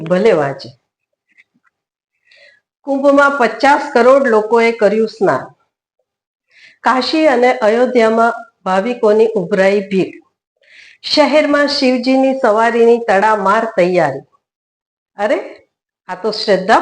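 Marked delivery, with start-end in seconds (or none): 2.8-14.2 reading newspaper headlines aloud. Acted. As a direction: deliver each headline as a separate announcement. (છાપાની headline વાંચતા હોય તેમ)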